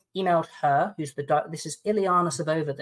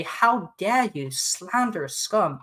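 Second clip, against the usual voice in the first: indignant retort; 2 semitones higher, slower than usual. Retold or imitated. Replying to the lawyer, slow and scornful. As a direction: spit out each word with contempt. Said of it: "I'm quite angry at this point".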